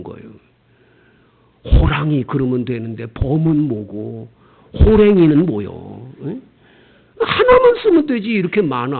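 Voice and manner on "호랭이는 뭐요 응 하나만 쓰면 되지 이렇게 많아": mock whiny complaint, a near-cry on the last line; whining foreigner. Pastor mimics a foreign learner, mock whining. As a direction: whimper it like a baffled learner.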